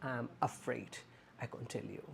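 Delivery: soft, gentle "I'm afraid, I can't tell you"; correct phrase, soft. Shown as a demonstration. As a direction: say it kindly and softly. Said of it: "just say".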